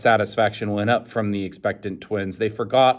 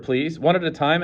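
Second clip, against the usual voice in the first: curt order; 7 semitones higher than usual. A narrator's reading.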